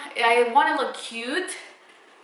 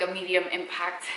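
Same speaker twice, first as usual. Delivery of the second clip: usual speaking voice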